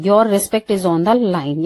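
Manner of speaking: each English word spelled out slowly; careful classroom dictation; slow teaching read. Shown as a demonstration. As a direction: dictate it slowly so learners can follow. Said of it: "इसको ये बोलते हैं".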